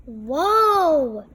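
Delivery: loud drawn-out whoa; excited kids. A narrator's reading. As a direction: cheer it like thrilled kids. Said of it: "said the kids".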